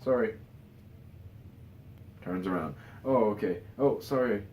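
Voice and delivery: lightly hammed-up Thor brushing it off; Thor impression. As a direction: toss off breezy sorries like a goofy Thor. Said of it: "Thor goes".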